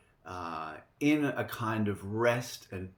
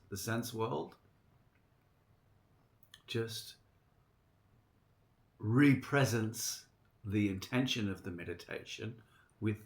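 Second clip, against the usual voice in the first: guided meditation. Real, not acted. Gives the meditation instruction.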